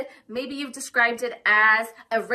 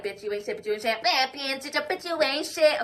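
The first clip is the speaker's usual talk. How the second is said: bashing inner voice. Retold or imitated. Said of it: "bashing you".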